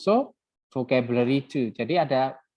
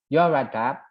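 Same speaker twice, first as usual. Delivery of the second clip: Brummie accent. Shown as a demonstration. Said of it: "ada ini di Midland, Broomy".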